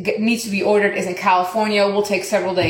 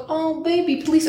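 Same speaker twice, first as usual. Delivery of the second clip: higher, cooing sympathetic lady; retold sympathy; 6 semitones higher than usual. Kind lady to customer near tears, imitated sympathetic coo. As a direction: lightly imitate her fussing over you.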